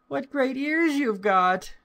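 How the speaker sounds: put-on very high, childlike wonder; amazed little girl. A narrator's reading. Little girl puzzled by grandmother's looks, high childlike wonder. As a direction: marvel as a small child, voice pitched right up.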